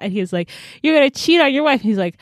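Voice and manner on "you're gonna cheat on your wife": high, mock-outraged accusation; indignant accusation. Leland accuses her lover of cheating, acted outrage. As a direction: throw it at him, high and indignant.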